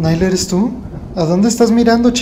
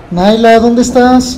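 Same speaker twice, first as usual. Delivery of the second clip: louder, slow called-out question; calling out; 4 semitones higher, 5 dB louder, slower than usual. Real, not acted. Owner searching, calling his dog out loud. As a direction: call across the house.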